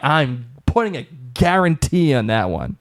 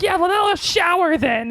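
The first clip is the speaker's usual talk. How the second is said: mock British accent. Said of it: "And she's like".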